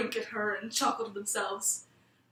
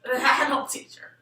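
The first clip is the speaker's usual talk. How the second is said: slow, louder gloating snicker; snickering trees; 11 dB louder, slower than usual. A narrator's reading. The trees mock the lost girl, gloating snicker. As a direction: sneer it out slowly, enjoying her trouble. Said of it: "hear them snicker to themselves".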